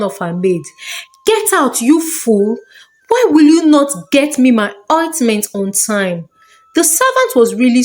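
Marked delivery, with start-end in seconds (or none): 1.2-6.3 shouting. Acted. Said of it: "Princess Adaobi shouting".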